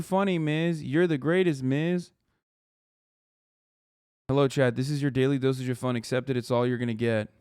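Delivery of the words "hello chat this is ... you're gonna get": a mild condescending tone. Pretend. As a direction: talk down to chat. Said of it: "condescending voice".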